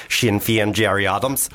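lightly put-on Northern Irish accent; key phrase for slipping into Irish. Shown as a demonstration. Podcaster showing how he gets into an Irish accent. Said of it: "to get into an Irish accent".

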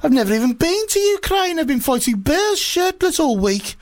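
put-on Russian accent. Putin denying Ukraine to Obama in a high, mock-Russian voice. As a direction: protest your innocence in a hammed-up Russian accent. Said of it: "probably a Russian one".

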